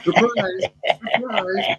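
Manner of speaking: sing-song surprise surprise; mock surprise. Real, not acted. Mock announcement after laugh.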